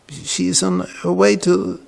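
ordinary talk, nothing marked

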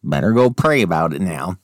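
lightly mocking pious scold; a hint of a churchy scold; prim Christian. Mocking a Christian scolding a friend, lightly prim. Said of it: "You know, like".

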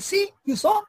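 very high, loud gloat; triumphant see. Retold or imitated. Old lady gloating after the lightning, high and triumphant. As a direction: crow that they saw. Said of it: "And she said".

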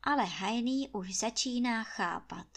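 usual speaking voice

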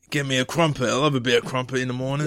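mock-British crumpet lover; British accent. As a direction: order in a put-on British accent. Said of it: "I'm British".

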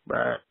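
low imitated buck grunt; imitating a deer grunt call, low and short. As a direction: grunt it like a hunting-show caller. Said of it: "They do their little grunt".

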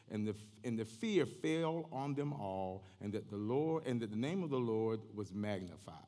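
measured, emphatic pulpit reading; scripture reading. Real, not acted. Preacher reading Acts to the congregation, declamatory.

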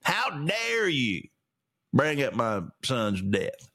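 slow, drawn-out mock outrage; mock angry Joe. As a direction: ham up a grumpy old man's complaint. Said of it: "remember that whole part?".

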